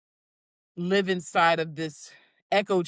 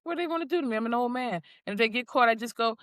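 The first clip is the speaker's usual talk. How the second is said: Uncle Leo; 4 semitones higher, 3 dB louder, faster than usual. Retold or imitated. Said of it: "Uncle Leo".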